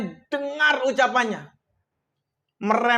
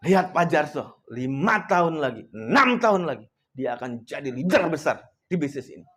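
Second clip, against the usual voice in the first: lower, inward voice of a silent prayer; inner prayer; 7 semitones lower than usual. Retold or imitated. Praying inwardly that belittled Pak Jarso will rise, low inward voice. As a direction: pray it to yourself, pitched low. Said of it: "Dalam hati saya gitu".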